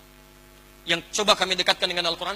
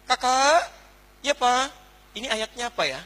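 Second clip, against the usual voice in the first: calling out; 5 semitones higher, 3 dB louder than usual. Retold or imitated. Father calls child for answers.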